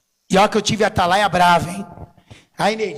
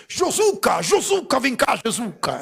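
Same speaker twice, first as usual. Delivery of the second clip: gentle bishop calling; 3 dB quieter, slower than usual. Retold or imitated. Kind Bishop Domingos softly calling young Josuca over. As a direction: coax him over like a kind old bishop. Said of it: "Ele falava assim".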